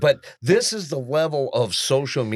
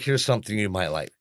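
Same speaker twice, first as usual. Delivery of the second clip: understated, lower-pitched pointed reply; sassy tone; 4 semitones lower, 3 dB quieter than usual. Retold or imitated. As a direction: imitate an assistant quietly shaming the user. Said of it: "but the tone".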